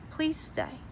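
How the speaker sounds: quiet rising plea to hold on; soft plea. Real, not acted. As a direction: beg them gently to stay. Pleading with a struggling viewer.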